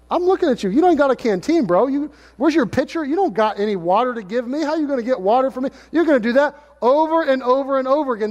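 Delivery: high, incredulous street voice; mocking skeptic. Woman at the well scoffing at Jesus, high and incredulous. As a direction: scoff at him, bro.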